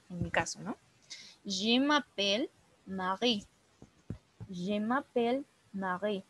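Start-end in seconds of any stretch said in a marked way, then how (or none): 1.4-6.2 "Je m'appelle Marie" said slowly, French r in Marie; slow French model phrase. Shown as a demonstration. Teacher models French slowly for beginners. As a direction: model each syllable slowly for the class. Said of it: "en cómo lo voy a pronunciar yo".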